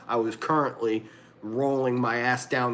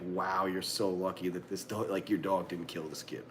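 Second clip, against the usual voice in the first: hushed retold amazement; 6 semitones lower, 8 dB quieter than usual. Retelling the amazed cops' reaction.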